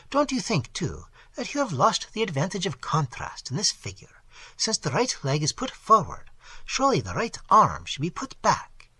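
lightly voiced French painter prattling over a sketch; Nicot, fussy French critic. The critic Nicot prattling to Glyndon, mildly pompous. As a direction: chatter on, a bit self-important and fussy.

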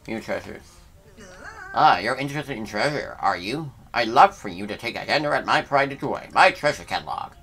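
lightly put-on posh appraiser accent; a hint of a fussy gentleman collector; mild invented accent for the treasure appraiser; made-up accent for Schnoz. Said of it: "what accent this even is for him".

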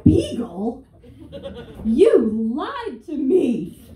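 loud, slow, wounded accusation; mock betrayed owner. Reading the DNA result and feeling betrayed, loud and slow. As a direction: accuse the dog dramatically. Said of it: "I'm gonna be like".

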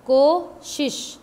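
कोशिश drawn out, each sound slow; कोशिश spoken slowly and clearly; careful slow demo. Shown as a demonstration. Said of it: "इसको बोलेंगे हम कोशिश". (धीरे और साफ़ कोशिश)

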